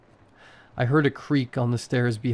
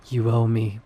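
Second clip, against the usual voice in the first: hissed; 3 dB louder than usual. A narrator's reading. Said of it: "she hissed".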